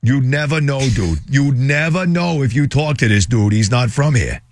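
light mock Boston accent; playful hint of Boston. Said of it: "put on my Boston accent".

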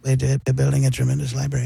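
soft, quick Trump voice; hushed Trump; library Trump. Acted. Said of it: "I do the library Trump".

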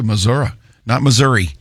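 first Missouri as Missour-uh, second as Missour-ee; grandfather's Missouri. Retold or imitated. Host recalling his grandfather's Missour-uh. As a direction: contrast Missour-uh with Missour-ee. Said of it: "that's how he used to say it".

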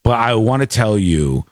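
a hint of a deep-voiced radio boss giving notes; program director. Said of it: "he was like".

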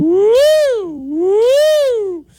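high, loud siren woo; hammed-up siren call; mock alarm siren. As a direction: wail like an alarm.

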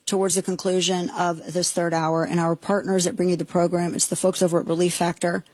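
measured sponsor read with slowed key phrases; host reading a sponsor ad to listeners, steady pitch; radio ad read. Acted.

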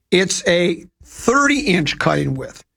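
slow, deliberate product pitch; slow salesman reading the specs. Acted. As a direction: sell each feature like a commercial. Reading out a mower ad.

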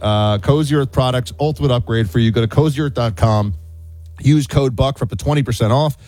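upbeat host-read ad, chatty and selling; warm, enthusiastic radio ad read. Acted. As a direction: sell the sheets like a friend's tip. Host reads a sponsor ad.

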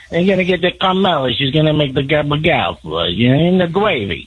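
Joe Pesci impression. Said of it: "It's pretty good, though".

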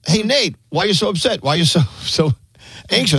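imitating Nate. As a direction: tease him gently in his own tones. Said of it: "Nate is like this".

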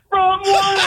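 excited yelling. Real, not acted. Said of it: "calm down, buddy".

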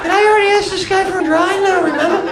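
high and fast puzzled self-questioning; mock bewildered aside; confused. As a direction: wonder it aloud, baffled. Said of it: "I'm like".

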